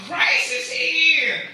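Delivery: high, loud proclaiming shout; mock shout. Disciples shouting the news around town, loud mock shout. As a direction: call it out to the whole street. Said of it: "go around shouting".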